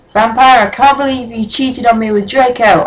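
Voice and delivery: mock accusing shout. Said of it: "I shouted at him".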